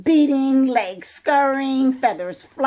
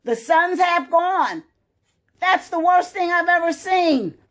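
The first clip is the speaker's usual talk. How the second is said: dismayed goat; 7 semitones higher than usual. Acted. Goat dismayed by half sun.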